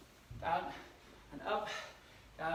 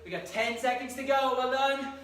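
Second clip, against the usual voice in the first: loud coaching; 3 semitones higher, 3 dB louder, slower than usual. Real, not acted. Coach pushing class through burn.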